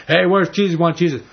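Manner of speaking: half-hearted yell at the door; mock mob yelling. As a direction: call it out like a demanding crowd, without a full scream. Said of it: "they're yelling and screaming".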